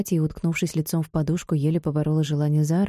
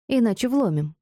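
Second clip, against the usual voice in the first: insistent; 5 semitones higher than usual. Acted. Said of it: "настойчиво повторила подруга".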